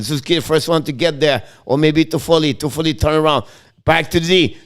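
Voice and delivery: brisk running hockey call; steady live commentator voice; play-by-play. Acted. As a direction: call every pass as it happens.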